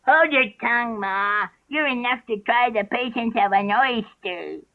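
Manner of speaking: put-on high young crab voice, peevish; high-pitched, drawn-out testy retort; a little snappish. A narrator's reading. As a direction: talk back to Ma, high and irritable. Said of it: "a little snappishly".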